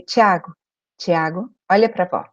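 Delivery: low, steady and calm; calm firm grandmother tone. Shown as a demonstration. Grandmother calmly calling her grandson, low and firm. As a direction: speak low and steady to settle him. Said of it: "Nesse tom de voz".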